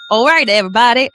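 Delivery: second stab at a bad Australian accent; hesitant, badly faked Australian greeting; attempted Australian accent. Host trying Australian morning TV greeting, badly faked Australian accent. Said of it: "How would you do Australian?".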